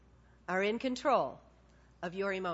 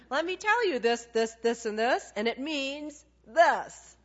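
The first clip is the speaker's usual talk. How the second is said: the Lord explaining; 3 semitones higher, 5 dB louder than usual. Retold or imitated. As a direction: spell it out like patient God. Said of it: "And he's going".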